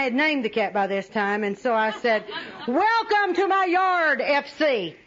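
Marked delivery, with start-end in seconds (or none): 2.7-5.0 raised, slow, sugary welcome to a cat; coaxing welcome. Retold or imitated. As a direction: sweet-talk the cat into staying, a bit over the top. Sweet-talking the stray cat.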